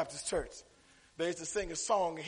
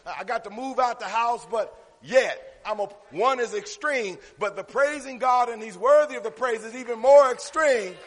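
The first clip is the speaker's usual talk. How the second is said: preacher hammering out key words; emphatic preaching; 4 semitones higher, 7 dB louder than usual. Real, not acted. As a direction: drive each phrase home to the congregation. Preaching to congregation.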